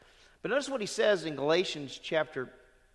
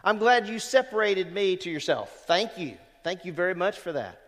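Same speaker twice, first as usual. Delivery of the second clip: loud, high burst of praise that settles into thanks; joyful hallelujah prayer; 3 semitones higher, 5 dB louder than usual. Pretend. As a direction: shout hallelujah then thank the Lord. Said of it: "We can just say".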